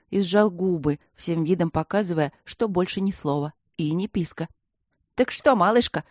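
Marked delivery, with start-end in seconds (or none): 5.1-6.0 gentle. A narrator's reading. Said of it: "ласково спросил Аристарх".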